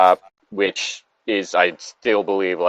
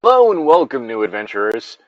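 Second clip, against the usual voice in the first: game master greeting; 2 semitones higher, 3 dB louder than usual. Pretend. Game master welcoming new adventurers, light mock grandeur. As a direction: greet new players like a host.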